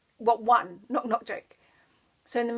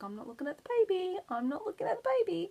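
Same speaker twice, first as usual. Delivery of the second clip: mock resolve; 8 semitones higher, 4 dB quieter, faster than usual. Mock resisting a friend's baby.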